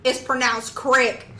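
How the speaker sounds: CRICK drawn out slowly with a short i; slow, emphatic "crick", mimicking a video; imitated TikToker. Host quotes a TikToker correcting creak, slow imitated pronouncement. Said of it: "put his camera up, he said".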